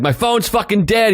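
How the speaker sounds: kind of freaking out. Retold or imitated. Carjacking victim to the uncle's truck, kind of freaking out. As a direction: imitate a rattled man venting. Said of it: "He was, like, kind of freaking out".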